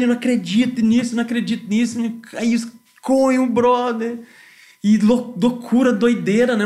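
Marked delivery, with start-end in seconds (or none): 0.0-2.0 mildly hammed-up "I can't believe it"; stepping out of the van in the rain, mock yelling in disbelief; retold excited yelling. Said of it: "e gritando".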